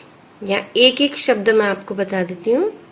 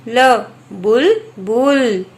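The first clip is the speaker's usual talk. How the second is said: slow blending; 3 dB louder, much slower than usual. Shown as a demonstration. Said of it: "छोटे ऊ की मात्रा बू".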